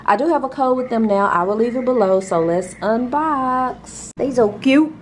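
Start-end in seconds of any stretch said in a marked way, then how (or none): 4.2-4.9 high, delighted squeal; gushing. Real, not acted. Unboxing gifts, she coos over the cute packaging. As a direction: coo over how cute they are.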